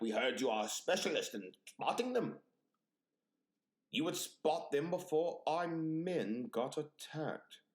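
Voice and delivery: lightly voiced, stiff recruiting officer; mock military officer. Officer recruiting a spider spotter, mock solemn. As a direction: put on a slightly formal commander, slowing down.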